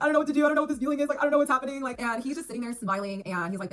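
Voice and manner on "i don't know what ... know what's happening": higher, louder mock tearful plea; half-hearted retold sob; retold crying. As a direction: replay the teary confusion lightly. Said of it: "bawling my eyes out".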